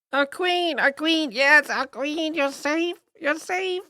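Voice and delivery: many bees as one voice; hive mind voice. Acted. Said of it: "in, like, a hive mind, voice".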